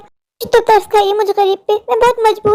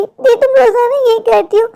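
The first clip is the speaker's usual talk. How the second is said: put-on higher, sulky child; little sister voice; 4 semitones higher than usual. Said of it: "Pinky मुझसे सवाल पूछेगी".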